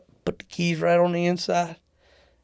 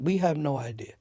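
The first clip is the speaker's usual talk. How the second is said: badly faked British accent; a rough attempt at a British airline worker; half-hearted British accent; terrible British accent. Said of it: "It's a great British accent".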